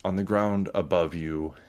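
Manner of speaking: slow, suspenseful game master narration; scene setting. Acted. Game master telling players of rumbles above the catacombs, slow narration. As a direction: draw out the menace phrase by phrase.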